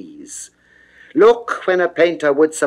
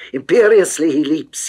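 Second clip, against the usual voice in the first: ordinary delivery, nothing marked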